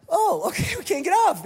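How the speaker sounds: high, half-sung 'oh okay'; fake-breezy sing-song cover for panic; mock calm panic. Passenger to his wife Jill, falsely breezy and sing-song.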